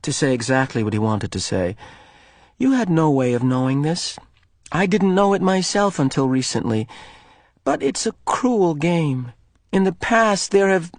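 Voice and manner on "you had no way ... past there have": gentle, careful voice; boy kindly explaining. Acted. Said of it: "speak carefully and with kindness".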